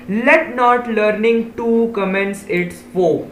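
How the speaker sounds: reading the example sentence very slowly; very slow read-aloud. Shown as a demonstration. Teacher slowly reading a dictionary example to pupils. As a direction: read it out one word at a time.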